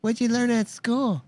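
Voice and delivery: high sleazy creep voice; creepy singsong to a kid; shithead voice. Pretend. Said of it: "little kid shithead voice".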